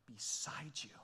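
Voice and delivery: soft whisper on the refrain. Acted. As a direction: let it fall to a breath.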